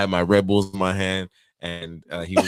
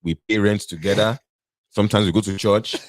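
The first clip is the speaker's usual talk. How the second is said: put-on reassuring suitor with an African accent; put-on African husband's accent. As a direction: excuse yourself in a mock African accent. Playing the married African suitor.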